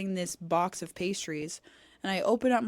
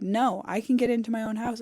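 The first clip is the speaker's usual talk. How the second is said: raised, louder indignant snap; mock-indignant insistence at the sister; indignant retort; 4 semitones higher, 5 dB louder, faster than usual. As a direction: insist hotly, a step higher and louder. Retold angry retort to sister.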